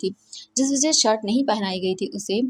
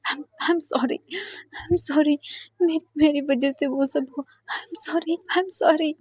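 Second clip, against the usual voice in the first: higher, halting sorry on the verge of tears; tearful apology; 5 semitones higher, much slower than usual. Acted. Wei Ying apologises to the wounded Wang Ji, close to tears. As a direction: stammer out sorry as if about to cry. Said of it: "ये बोलकर वो रोने लगता है".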